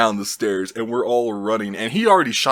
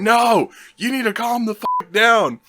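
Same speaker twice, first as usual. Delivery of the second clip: high, loud acted shout back; yelled refusal; 12 semitones higher, 4 dB louder than usual. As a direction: shout back in mock exasperated panic. Friends yell back through door.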